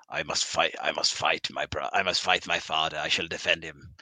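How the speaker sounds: low, rumbling country-singer voice; sing-speak it low like a country singer; a singer impression. Mocking the voice book, a low country-singer voice. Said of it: "what does it sound like in the voice book? It says".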